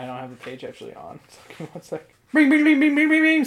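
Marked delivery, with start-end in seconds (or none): 2.3-3.4 game show chime. Pretend. Quiz host, correct answer.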